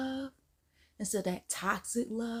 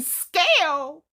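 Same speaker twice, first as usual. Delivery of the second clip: surprised; 6 semitones higher, 11 dB louder than usual. Retold or imitated. Dawning realization.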